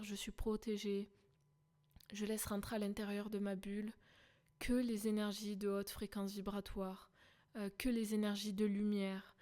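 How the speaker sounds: softly spoken self-affirmation; calm affirmation. Pretend. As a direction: say it softly to yourself, like a protective mantra. Models a protective affirmation. (affirmation posée, à voix douce)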